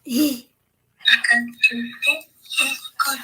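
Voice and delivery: laughing. Real, not acted. Says it aloud laughing.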